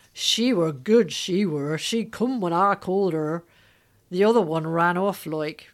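put-on Gloucestershire accent. Retelling what the injured sheep's owner said to the family, in a weird Gloucestershire accent. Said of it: "in that weird accent they have here in Gloucestershire".

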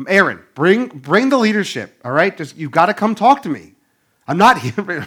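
play-acted, loud calling out. Retelling Moses calling Aaron and the leaders to come: imitating Moses calling loudly. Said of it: "with a loud voice, he's calling out to them".

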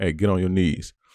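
mock bossy tone, fully in charge, dominant, commanding. Describing a trick used with partners, acting out a dominant tone. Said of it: "I tell them in a dominant tone".

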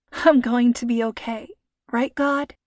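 giggling, laughing whisper. Narrated character, left in charge, speaking to God, whispering, still laughing. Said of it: "Lacey whispered, still laughing".

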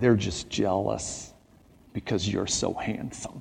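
very quiet, hushed, close murmur. Retelling a mother's comforting words in her son's ear: imitating speaking very quietly. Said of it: "she said very quietly in my ear".

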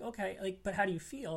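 ordinary talk, nothing marked

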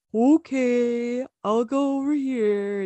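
very slow, dopey, big dumb cartoon drawl. Describing how Oakley acts and talks, in Oakley's big dumb cartoon voice. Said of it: "Just a big, dumb, like cartoon voice".

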